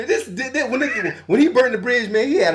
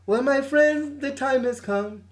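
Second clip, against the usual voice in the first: a lightly put-on Jamaican lilt, higher; poking fun at a singer's reggae accent; hammed-up Caribbean accent, mildly higher; mock reggae accent; 4 semitones higher than usual. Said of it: "try to do his little reggae accent".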